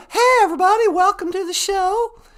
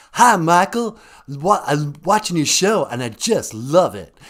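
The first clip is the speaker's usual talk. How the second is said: prank caller pretending to be a rock star; rock singer impression; 10 semitones lower, 3 dB louder than usual. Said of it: "It's me, a singer of a rock band".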